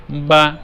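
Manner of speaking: বা short and even, voice stopped promptly; teacher's model of a brief, steady বা; short, unforced vowel. Shown as a demonstration. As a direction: say বা and close off the sound as soon as the mouth opens. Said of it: "মুখ খোলার সাথে সাথে আওয়াজটাকে বন্ধ করে দিতে হবে".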